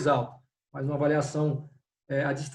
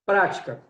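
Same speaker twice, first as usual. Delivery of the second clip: prática with a firm PRA; stress on first syllable; 4 dB louder than usual. Shown as a demonstration. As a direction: lean on the "prá" in prática, letting "tica" fall away. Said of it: "a sílaba pra".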